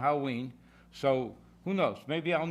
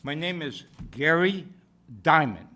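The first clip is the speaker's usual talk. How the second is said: loud, carrying voice; loud projection; 5 dB louder than usual. Real, not acted. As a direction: speak up loudly. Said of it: "sorry if I speak loud".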